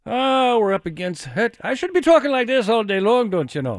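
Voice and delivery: lightly done Irish lilt, playful; hammed-up Irish accent, half-hearted; a touch of Irish brogue for the green outfit; mock Irish accent. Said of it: "I don't do an Irish accent very well".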